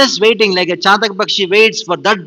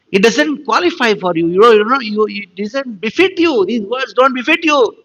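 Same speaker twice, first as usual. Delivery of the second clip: higher-pitched, lightly indignant scolding; mild acted reproach; 6 semitones higher than usual. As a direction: plead and scold as an offended devotee. Acts gopis reproaching Krishna.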